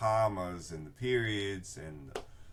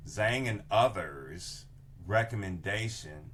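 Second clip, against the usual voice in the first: reading aloud; 2 semitones higher, 4 dB louder than usual. Shown as a demonstration. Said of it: "let me read the whole sentence".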